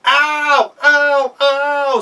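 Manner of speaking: high, loud cries of pain; wolf crying out after falling; yelps of pain. Acted. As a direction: yelp as if hitting a rock. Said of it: "said the wolf".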